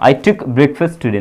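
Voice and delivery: each word slow and distinct; slow model sentence. Shown as a demonstration. Teacher gives students the English question, slowly. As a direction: dictate the question clearly. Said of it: "yes, किया था".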